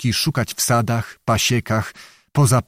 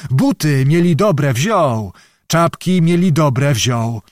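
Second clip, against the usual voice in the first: put-on higher-pitched, lamenting old man; plaintive old beggar; 4 semitones higher than usual. Old beggar tells the lord he was robbed, high and plaintive. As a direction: list the losses as a wronged beggar.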